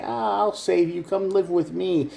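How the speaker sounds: mock rescuer. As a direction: play the smug saviour luring them in. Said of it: "they're gonna say".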